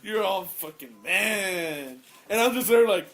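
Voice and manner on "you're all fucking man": lightly put-on Hispanic accent; a hint of a Hispanic accent, teasing. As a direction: tease her in a mild Hispanic accent. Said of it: "that's how he talks".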